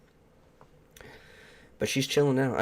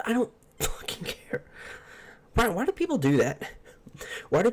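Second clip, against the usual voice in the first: laughing; 12 semitones higher than usual. Real, not acted. Laughing exasperated reply.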